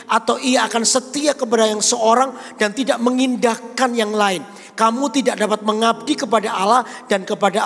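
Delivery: scripture reading. Acted. Reads scripture aloud.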